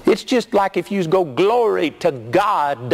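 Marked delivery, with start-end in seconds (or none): 1.2-2.9 mock preacher hype. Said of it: "put an A on the end of everything".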